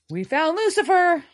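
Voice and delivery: high, loud announcement; excited reveal. Real, not acted. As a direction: burst out with the news.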